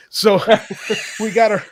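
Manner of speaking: laughing through the words. Real, not acted. Dad laughing while retelling his son's joke. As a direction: chuckle while getting the words out.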